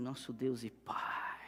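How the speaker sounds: slow, airy, breathy, dragged-out prayer-like voice. Imitating how he opened his prayers: imitating a drawn-out breathy prayer voice. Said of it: "Ele arrastava com ar na voz".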